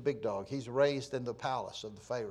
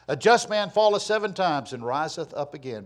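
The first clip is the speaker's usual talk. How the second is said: louder, declaimed Bible verse; scripture reading; 2 semitones higher, 8 dB louder than usual. Acted. Preacher quotes a proverb to the congregation, scripture reading. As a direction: proclaim the verse firmly.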